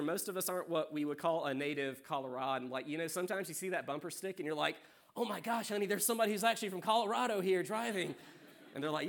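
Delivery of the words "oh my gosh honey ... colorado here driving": high-pitched astonished exclamation; gushing mock astonishment, pitched up; mock amazement. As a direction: act amazed, as if spotting a rarity. Mock amazement at rare native driver.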